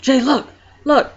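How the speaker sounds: high, loud eager call to look; excited. Retold or imitated. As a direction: push him to see it now. Wife showing the pregnancy test.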